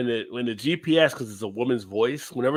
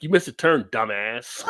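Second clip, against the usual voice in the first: Red from That 70s Show. Retold or imitated. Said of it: "like the dad from That seventies Show, Red".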